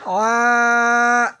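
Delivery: আ from the middle of the throat, pressed and held; throaty ain; pressed ain sound. Shown as a demonstration. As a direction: squeeze the আ from the throat. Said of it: "এখানে আইনটা একটু চাপতে হবে".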